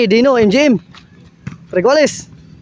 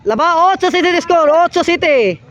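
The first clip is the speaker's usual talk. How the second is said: live play-by-play; 5 semitones higher than usual. Acted. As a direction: call the rally as it happens.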